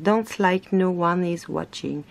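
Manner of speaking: slow, self-mocking French-accented English; bad English accent. Shown as a demonstration. Reading an English motto on paper to viewers, in bad English accent. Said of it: "Me demandez pas mon accent anglais pourri".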